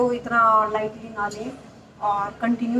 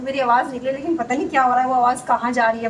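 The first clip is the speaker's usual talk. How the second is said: trying to speak loud; 5 dB louder than usual. Real, not acted. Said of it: "कोशिश करती हूँ कि मैं तेज़ बोलूँ".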